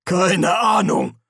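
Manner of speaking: high, slow, loud nervous reply. Acted. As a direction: answer in fear, stretched out. Frightened answer before drawn swords.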